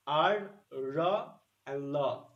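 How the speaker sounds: "ra" with a pronounced R, "la" with a clear L; contrasting R and L. Shown as a demonstration. Teacher isolates the sounds for class, "ra" then "la". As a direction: sound out "ra" and "la" apart. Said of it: "B, uh, R".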